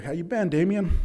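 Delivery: upbeat retold greeting; happy greeting. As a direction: greet him brightly, voice lifting up. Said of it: "He was all happy".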